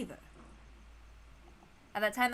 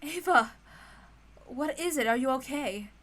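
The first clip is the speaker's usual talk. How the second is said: raised, anxious calling; concerned call. Acted. Natsuhi hurrying to frightened Ava, calling out. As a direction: call to her in alarm.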